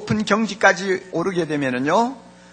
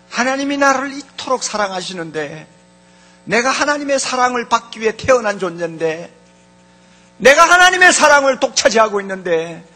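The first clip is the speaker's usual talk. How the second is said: confident self-talk; 2 semitones higher than usual. Acted. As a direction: grow more convinced with each phrase. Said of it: "이런 소리를 하게 돼요".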